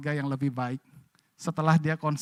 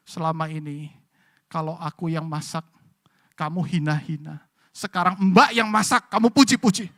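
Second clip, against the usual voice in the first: angry wife; 5 dB louder than usual. Retold or imitated. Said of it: "marah besar".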